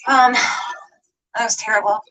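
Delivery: slow, tearful words; crying. Real, not acted. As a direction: voice breaking with grief. Grieving brother's death.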